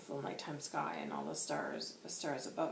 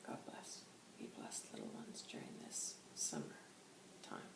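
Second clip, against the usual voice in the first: very soft, almost whispered blessing; hushed blessing; 13 dB quieter than usual. Acted. Spirit guide blessing the little ones, hushed and barely voiced. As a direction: murmur it tenderly, barely voiced. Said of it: "And then White Hawk goes".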